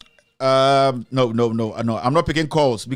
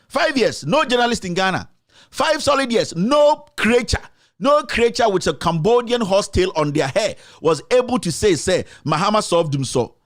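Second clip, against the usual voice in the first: high, ranting fury; angry tirade; 4 semitones higher than usual. Real, not acted. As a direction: hammer out each accusation in real anger. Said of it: "I get angry and I start to speak my mind".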